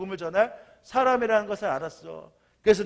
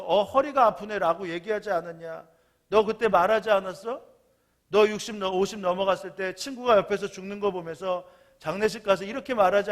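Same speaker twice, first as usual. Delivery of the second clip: scolding. Retold or imitated. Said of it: "이제는 이 청년이었던 사람에게 화를 내요".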